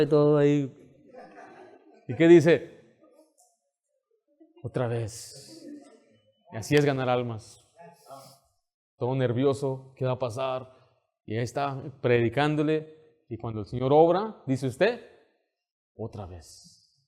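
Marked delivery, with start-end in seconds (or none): 4.6-5.7 soft, very slow breathless request; dazed rider. Acted. Rider after the ride. 16.0-17.0 very soft, low and very slow; hushed awe. Acted. Soul-winner after God works.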